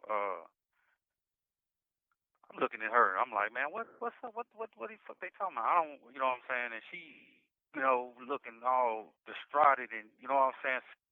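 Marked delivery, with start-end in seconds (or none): 3.5-5.7 shocked disbelief. Retold or imitated. Retold shock at police news.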